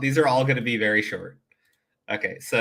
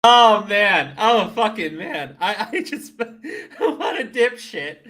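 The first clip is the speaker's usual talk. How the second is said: loud laughing exclamations; can't stop laughing; 7 semitones higher, 7 dB louder than usual. Real, not acted. Streamer to chat after the clip, laughing loudly.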